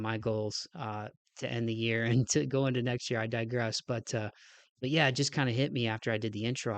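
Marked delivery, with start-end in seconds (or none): 3.2-6.8 nasal, stuffed up; nasally voice. Real, not acted. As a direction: talk through blocked sinuses. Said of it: "like, super nasally".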